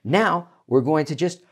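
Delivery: ordinary talk, nothing marked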